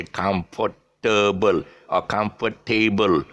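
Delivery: "comfortable" spelled out as com-fort-table; mispronounced comfortable. Shown as a demonstration. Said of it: "so they will say".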